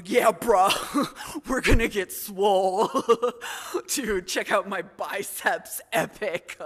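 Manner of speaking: loud, puffed-up gym bro; deepened gym-bro voice. Acted. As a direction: play a dumb bro showing off, huffing between phrases. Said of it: "I deepen my voice".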